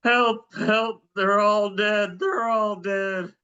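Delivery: high, slow desperate cries for help; panicked caller. Pretend. Panicked caller in role-play.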